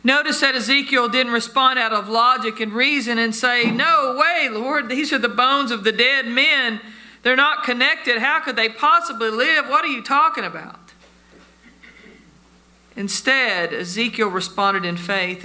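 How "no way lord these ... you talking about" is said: acted-out incredulity; incredulous objection. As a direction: push back in disbelief, pitched up. Objection Ezekiel did not make.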